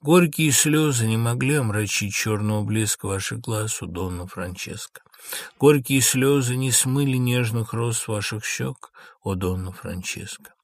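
restrained lament, each phrase sinking away; quiet reproach. Acted. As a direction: reproach her gently. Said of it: "С тихим укором".

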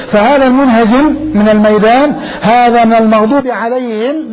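loud, forceful condemnation; a sermon line shouted out; preaching shout. Real, not acted. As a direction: thunder it at the congregation.

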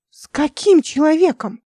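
high, loud, slow amazed question; astonished. A narrator's reading. Изумлённо, громко. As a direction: Nika stunned by news of a stranger. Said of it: "изумилась Ника".

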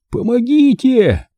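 high, drawn-out cry for help; frantic boy's high-pitched call; desperate call. A narrator's reading. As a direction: call out desperately, stretching the word. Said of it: "отчаянно позвал Бенжи".

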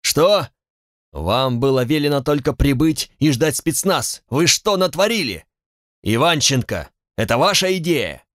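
powerful roar. Acted. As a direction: bellow at the subordinates. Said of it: "заорал мощным голосом доминанта".

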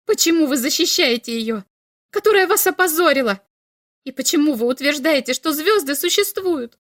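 high, loud and fast outrage; angry shout. A narrator's reading. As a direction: fire questions at him. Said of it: "крикнула Ульма".

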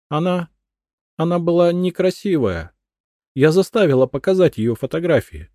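halting, high stammering words; a hint of hesitant faltering. A narrator's reading. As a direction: stumble over the words. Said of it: "запинаясь".

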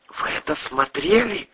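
high, sharp accusing question; accusing wife. Acted. Wife accusing husband, high gasping outrage. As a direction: confront him with what he watched.

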